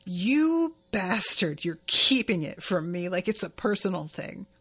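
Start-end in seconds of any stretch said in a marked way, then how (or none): 0.0-3.1 mock resentful snarl. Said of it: "I love this energy of him being like".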